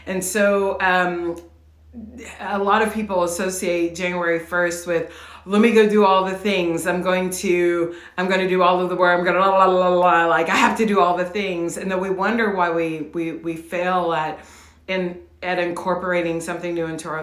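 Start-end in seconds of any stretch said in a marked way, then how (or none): 5.4-11.8 rushed, louder mock overachiever; frantic go-getter. Coach mocking frantic New Year go-getters, rushed and louder.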